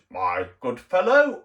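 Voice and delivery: slow, hammed-up posh English drawl; a slow mock posh English "my good fellow". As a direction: play the posh English gent for Americans. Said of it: "you think we're all posh".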